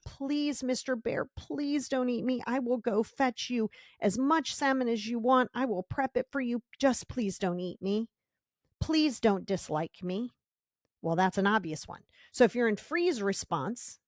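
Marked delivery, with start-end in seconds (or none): 0.1-10.3 grovel to the bear for mercy; mock pleading. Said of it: "you get down on your hands and knees and you say".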